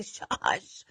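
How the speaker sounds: whispered hush; whispered shush to mom. Retold or imitated. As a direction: hush her under your breath. Hushing her mom in the shop.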